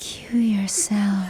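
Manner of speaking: put-on seductive voice. Retelling how Roz said the show's phrase: imitating Roz's seductive voice. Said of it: "Roz did the cue yourself in the seductive voice".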